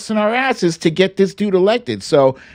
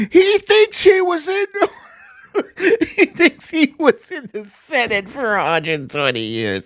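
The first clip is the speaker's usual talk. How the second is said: much higher mock shriek of outrage; hammed-up hysterical critic yelling; mocking outraged Twitter; 11 semitones higher than usual. Vlogger mocking right-wing Twitter's outrage, high shrieking parody. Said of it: "right-wing Twitter, like, lost their minds".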